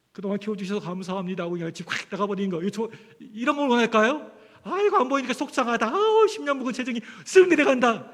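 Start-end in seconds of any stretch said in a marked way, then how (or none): 0.1-1.4 quick flippant thanks. Retold or imitated. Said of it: "정말 이런 것일까요?". 4.6-8.1 mock relieved father. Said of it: "이럴까요, 제가요?".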